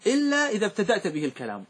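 measured, chanted line of poetry; teacher reciting a grammar poem; verse recital. Shown as a demonstration. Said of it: "هذا معنى قوله".

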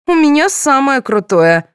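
put-on proud high child boast; triumphant high show-off voice; boastful. A narrator's reading. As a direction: brag like a little girl showing off.

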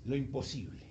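solemn low delivery; hushed intensity. Real, not acted.

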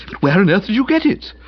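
high, emphatic question; astonished. A narrator's reading. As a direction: demand it in sheer wonder. Amazed question about the costume.

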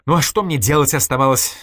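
indignant. Acted. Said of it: "возмутилась Ирина".

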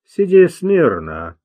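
медленно и твёрдо, без нажима; спокойно приказать прижатому к земле; спокойный приказ. A narrator's reading. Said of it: "спокойно приказал он". (спокойная властная команда)

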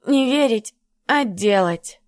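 put-on slurred, tongue-tied drunk mumble; slurred drunken mumble. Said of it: "заплетающимся языком пробормотала Натка".

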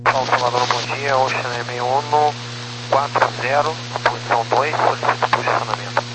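distant crackly radio voice. Real, not acted. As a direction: voice through a scratchy radio. Pilot call over radio.

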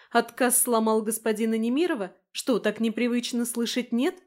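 put-on girl taunting a proud man; mocking taunt. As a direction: needle him about being refused. She mocks his pride.

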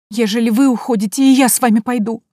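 plaintive whine. A narrator's reading. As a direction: whimper it like a simple servant girl begging. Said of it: "заявила Акулина плаксивым голосом". (плаксивым голосом, жалобно и высоко)

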